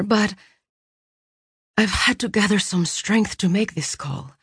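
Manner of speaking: sister's voice. Acted. Sister on phone, strained.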